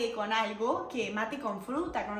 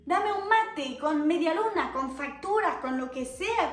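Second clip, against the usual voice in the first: louder, higher, eager pleading; craving snacks; 5 semitones higher, 5 dB louder, slower than usual. Real, not acted. Vlogger craving Argentine merienda, eager louder plea. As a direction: beg for mate and pastries.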